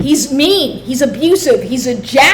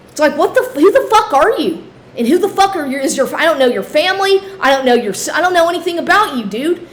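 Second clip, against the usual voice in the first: exasperated rant; 4 semitones higher, faster than usual. Real, not acted. Ranting at her ex.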